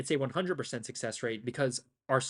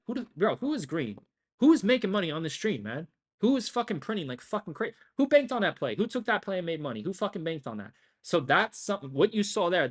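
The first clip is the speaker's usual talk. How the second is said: hyped call-out; 5 semitones higher, 4 dB louder than usual. Real, not acted. Hyping up winners in chat.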